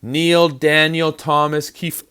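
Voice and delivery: slow, high, loud summons; mock parental yell, one name at a time; parent yelling full name. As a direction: call out each name like a cross parent. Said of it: "parents are yelling at you and they say your full name".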